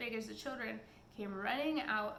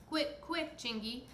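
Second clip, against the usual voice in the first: shouting; 3 semitones higher than usual. Acted. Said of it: "shouted Peter".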